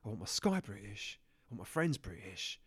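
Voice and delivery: mock seething, low-pitched; frothing patriotic rant. Dave ranting to Stan about British sky and friends, low seething. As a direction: build a restrained, obsessive rant. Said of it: "You're frothing at the mouth a bit there".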